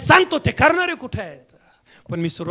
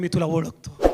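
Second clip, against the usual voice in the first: low, soft quoted word from God; quiet assurance; 7 semitones lower, 5 dB quieter than usual. Acted. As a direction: say it softly and low. First take, said quietly. (हळू, खालच्या आवाजात)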